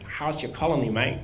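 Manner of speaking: lightly imitated thick Texan accent on the friend's line. Imitating a friend from Texas asking about your colony, lightly Texan. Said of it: "thick Texan accent".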